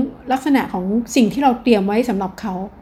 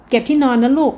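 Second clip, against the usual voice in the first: gentle coaxing; 3 semitones higher than usual. Shown as a demonstration. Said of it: "ด้วยท่าทีนะ ไม่ใช่แค่".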